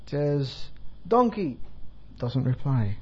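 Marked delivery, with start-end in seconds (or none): 1.1-1.6 higher-pitched call down to someone; lightly acted call for attention. Monkey in a tree calling to the donkey, calling out. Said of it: "starts to call".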